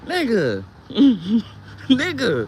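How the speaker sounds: loud laughing cry; laughing exclamation. Real, not acted. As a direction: burst out laughing at him.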